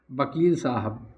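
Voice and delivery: वकील said as bakil with a b; Awadhi pronunciation. Shown as a demonstration. Teacher showing the Awadhi b in वकील. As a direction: start वकील with a b sound. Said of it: "वकील को हम कहेंगे".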